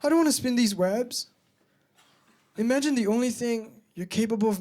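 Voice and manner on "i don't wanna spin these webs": high, loud panicked ladybug. Acted. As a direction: squeal it like a frightened bug. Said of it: "the ladybug turns and says".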